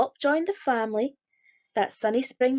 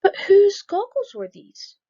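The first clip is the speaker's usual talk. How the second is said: surprised; 9 semitones higher, 8 dB louder than usual. A narrator's reading. Mysterious clue found in story.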